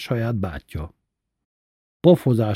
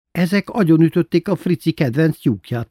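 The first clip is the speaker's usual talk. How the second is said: laughing; 7 semitones higher, 4 dB louder than usual. A narrator's reading.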